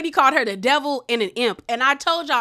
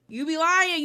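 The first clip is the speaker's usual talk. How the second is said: higher sing-song taunt; 5 semitones higher than usual. Shown as a demonstration. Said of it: "it's just giving".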